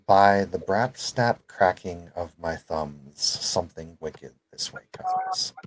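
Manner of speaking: slow, witchy incantation, lightly voiced; a hint of a witch casting a spell; wicked stepmother. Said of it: "I like how I'm wicked".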